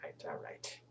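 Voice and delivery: barely audible whisper; hushed, grudging agreement; whispered concession. Acted. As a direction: give in under your breath. Grudgingly accepts a slice of pie.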